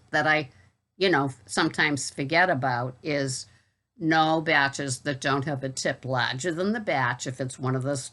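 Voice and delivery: casual Boston accent chat. Real, not acted. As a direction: talk it through in a Boston accent. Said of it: "I hope you enjoyed my Boston accent video".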